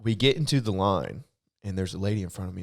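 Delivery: ordinary delivery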